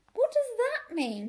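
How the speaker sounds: high, loud exasperated bark. A narrator's reading. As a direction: bark the question at a halfwit. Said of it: "barked Fly".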